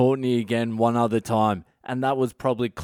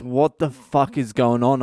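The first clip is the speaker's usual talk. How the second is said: baffled, exasperated outburst. Retold or imitated. Family hugging him.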